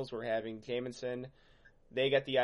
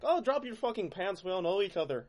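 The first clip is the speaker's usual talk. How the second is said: higher rowdy urging; mock drunk Irish goading; 6 semitones higher than usual. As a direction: egg him on like a drunk.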